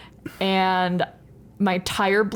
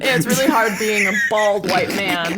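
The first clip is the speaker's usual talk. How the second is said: sarcastic whine; 3 dB louder than usual. Pretend. Sarcastic mock complaint.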